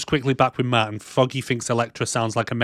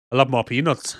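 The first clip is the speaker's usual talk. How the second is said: lightly attempted Irish accent. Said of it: "was my Irish accent".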